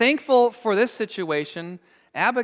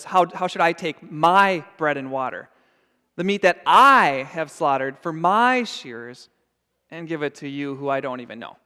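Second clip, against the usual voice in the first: surly; 2 semitones lower, 4 dB louder than usual. Retold or imitated. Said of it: "you hear that in his words".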